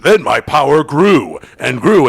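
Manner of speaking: mock orb voice. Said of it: "the weird orb was like".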